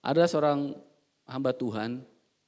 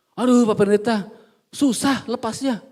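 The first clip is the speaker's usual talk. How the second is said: a hint of a pleading man, drawn-out and higher; whining confession; 6 semitones higher, 6 dB louder than usual. Churchman whining to the pastor, mock pleading. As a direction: moan it like a man who won't let go.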